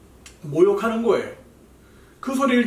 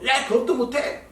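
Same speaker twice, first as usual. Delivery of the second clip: teasing; 5 semitones higher than usual. Retold or imitated. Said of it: "막 놀리거나".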